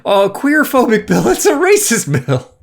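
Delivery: high, loud indignant rant; heated outrage. Real, not acted. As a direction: build the outrage. Angry rant about the bill.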